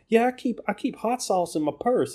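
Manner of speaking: high, pandering politician voice; mock a politician faking folksiness; mock Hillary Clinton. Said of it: "she's just like".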